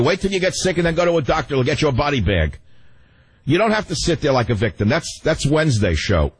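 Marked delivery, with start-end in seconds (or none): 0.0-2.6 mocking official. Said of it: "That's what he'll tell you".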